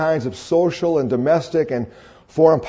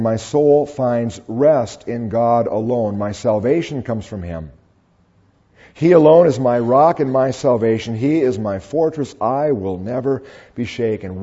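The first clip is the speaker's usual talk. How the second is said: lower, measured reading of a psalm; scripture reading; 5 semitones lower than usual. Acted. Preacher reads David's psalm to the congregation, lower scripture reading.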